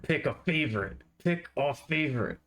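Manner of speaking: high menacing chant, jabbing each word; threatening. Pretend. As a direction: point and threaten with every word. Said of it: "more of a threatening, pointing at me with each word".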